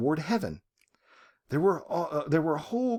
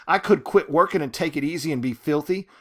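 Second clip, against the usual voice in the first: defiant rant; 4 dB louder than usual. Acted. Reading Ruby's bitter defiant outburst.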